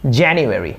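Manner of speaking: জানুয়ারি said as JAN-yu-eri; correct pronunciation. Shown as a demonstration. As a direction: model জানুয়ারি crisply as English "JAN-yu-eri", falling. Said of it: "শুদ্ধ উচ্চারণে কথা বলতে". (শুদ্ধ ইংরেজি উচ্চারণে)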